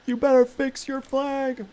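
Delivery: high, loud, slow scolding voice; high slow mock-stern voice; weird voice for chat. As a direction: scold in a goofy put-on voice. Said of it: "read your voices aloud in a very weird way".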